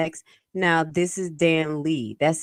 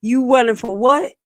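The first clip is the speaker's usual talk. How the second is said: mock confrontation; 5 semitones higher, 4 dB louder than usual. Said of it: "That's when you gotta think like".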